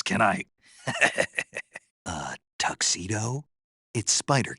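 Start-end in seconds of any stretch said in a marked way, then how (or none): 0.8-1.8 brief breathy chuckle; short chuckle. Acted. Joking about taking off his pants, short chuckle. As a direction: let out a short laugh at your own joke.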